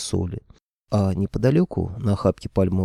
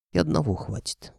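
grumbling grandfather; 8 semitones higher, 4 dB quieter than usual. A narrator's reading. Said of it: "проворчал дед".

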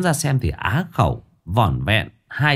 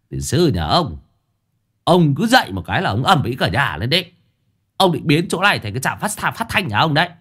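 sharp irritated scolding, pitched up; snapping; 5 semitones higher than usual. Acted. Master snapping at noisy disciple, irritated. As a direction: snap at him for the racket. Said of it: "Cậu gắt".

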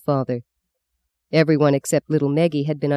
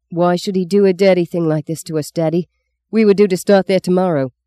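a son's raised protest to his father over lost work; rising indignant complaint, a touch louder; upset protest; 3 semitones higher, 4 dB louder than usual. Acted. Son protesting angrily to father about the lost shed, raised voice. Bob angry after bad telegram.

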